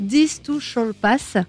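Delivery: English title, French accent; accent anglais. Real, not acted. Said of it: "j'ai un accent anglais exceptionnel". (titre en anglais avec l'accent français)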